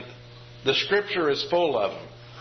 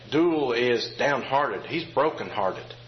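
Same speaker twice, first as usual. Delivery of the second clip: mild sad emphasis; slower than usual. Shown as a demonstration. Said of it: "when you say".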